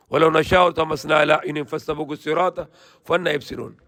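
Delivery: swift, even Quranic recitation. Acted. Preacher reciting the verse to listeners in quick chant.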